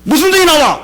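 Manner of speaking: high, loud disbelief; father baffled by son's answer; incredulous shout. Retold or imitated. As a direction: snap back in disbelief. Father's indignant question.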